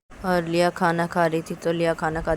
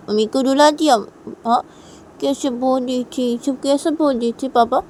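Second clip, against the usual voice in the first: put-on high, loud child confronting father; indignant little daughter; 5 semitones higher, 6 dB louder than usual. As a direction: defend mother in a child's voice. बच्ची पिता से सवाल करती है. (पापा पर नाराज़ छोटी बच्ची)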